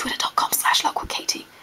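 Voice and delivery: soft, hushed, secretive whisper. Speaker giving their twitter handle at the end, whispered. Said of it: "I whispered it".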